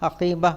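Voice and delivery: "హకీబా" ending in a small breathed h; final h sound. Shown as a demonstration. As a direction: finish "హకీబా" on a light h, like "hakibah". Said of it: "హా శబ్దం వస్తుంది".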